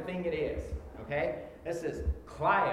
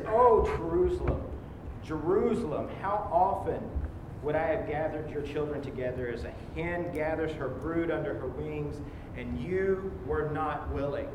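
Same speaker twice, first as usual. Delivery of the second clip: read with emotion. Acted. Preacher reading Jesus' lament over Jerusalem, mournful. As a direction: grieve over the city as you read. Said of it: "I put some emotion to it".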